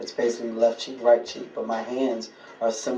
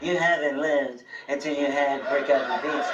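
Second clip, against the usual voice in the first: Jerry impression. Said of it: "That's your Jerry impression?".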